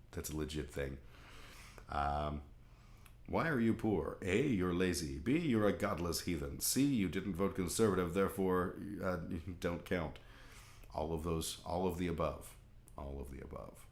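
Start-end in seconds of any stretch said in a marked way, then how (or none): 3.3-13.9 lightly voiced Southern preacher reeling off accusations; mock Southern Baptist. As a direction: put on a mild Southern Baptist accent. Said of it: "evil Southern Baptists".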